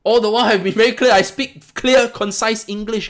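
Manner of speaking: loud, high, fast rant. Real, not acted. Vlogger ranting at followers who ignore his clear instructions. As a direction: hammer it home in frustration. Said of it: "Sorry to go on a rant".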